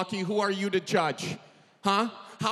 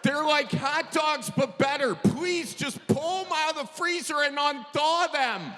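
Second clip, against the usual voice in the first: higher, pleading and exasperated; 5 semitones higher than usual. Retold or imitated. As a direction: beg him to just do it. Pleading in retold argument.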